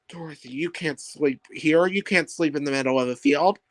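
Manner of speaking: ordinary delivery, nothing marked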